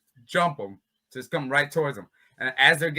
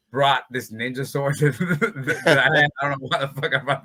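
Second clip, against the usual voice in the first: laughing; 4 dB louder, slower than usual. Real, not acted. Laughing while telling sword story.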